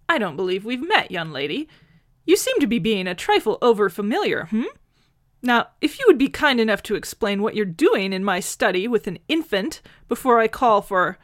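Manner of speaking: put-on an elderly man bristling at an intruder; a hint of a stern old gentleman; stiff old gentleman.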